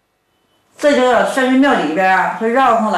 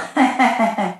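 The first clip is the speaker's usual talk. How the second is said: slight laugh; 3 dB quieter than usual. Acted. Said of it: "贾远英微微一乐".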